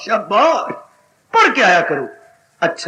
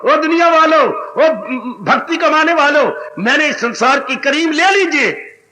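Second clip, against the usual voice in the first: calling out; 4 semitones higher than usual. Acted. Preacher calls out to the world.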